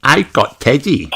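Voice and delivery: wide-eyed piglet showing off; Peppa voice. Acted.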